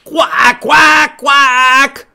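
loud, high squawked quacks; duck quacking. Acted. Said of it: "What is the duck wearing?".

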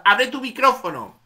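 host calls out to a guest whose mic is off; calling out. Real, not acted. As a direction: raise your voice so she hears. Mic closed, calling to Katy.

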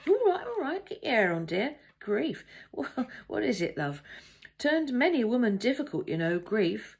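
high, loud protest from a taken-aback traveller; flustered male passenger. A narrator's reading. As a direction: fend her off, patronising and put out.

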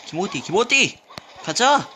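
high, excited yelling; hyped gamer shout. Real, not acted. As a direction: cheer yourself on mid-fight. (신나서 외치는 게이머)

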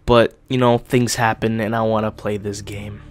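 swollen lip, a bit sick; talking through a swollen lip. Real, not acted. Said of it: "I am just a little bit sick".

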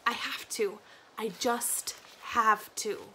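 whispered, slow and pleading to himself; desperate whisper. Acted. Doom swearing to himself, whispered and slow. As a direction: breathe it out like a vow.

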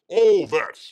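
loud. Acted. Host riffing on Aussie clichés for the chat, loudly. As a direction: punch out All that with a loud mock Aussie flourish. Repeats phrase, then louder.

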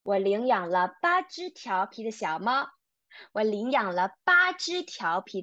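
brisk read-aloud of 我领养了八只调皮的小猫. Shown as a demonstration. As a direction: pick up the tempo for the class. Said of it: "one more time faster".

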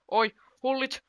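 high, loud cry sliding down; drawn-out run of noes, falling away; real dismayed outcry. Real, not acted. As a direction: call the player, then wail in disbelief. Big chance missed in game.

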